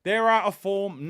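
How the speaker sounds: mock confident fan. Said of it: "I've said".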